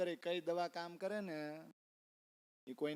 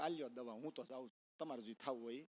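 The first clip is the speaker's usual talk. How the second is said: fed-up doctor; 5 semitones lower, 8 dB quieter than usual. Retold or imitated. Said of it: "વૈદ કંટાળીને વયો ગયો".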